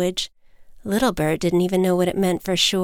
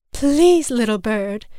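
begging; 3 semitones higher, 3 dB louder than usual. Acted. Mother bird begs her chick to stop, pleading. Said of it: "his mother begged".

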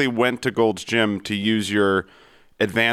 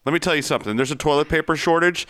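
angry; 5 semitones higher than usual. Acted. Insulting the caller.

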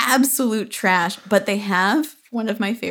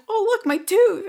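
high-pitched mock kid exclamation; imitated excited child; 13 semitones higher than usual. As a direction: voice a seven-year-old showing off, much higher. Retold child showing dad a tooth.

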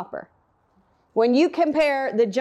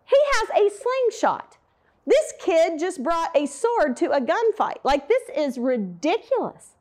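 mocking disbelief; 4 semitones higher than usual. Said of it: "he thought".

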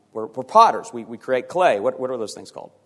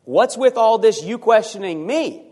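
raised voice, God challenging Job; stern God rebuking; 6 semitones higher than usual. Acted. God rebukes Job, demanding answers, raised and stern. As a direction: thunder it down at the questioner.

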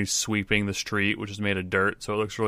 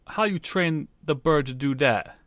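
street sweeper; 7 semitones higher than usual. Acted.

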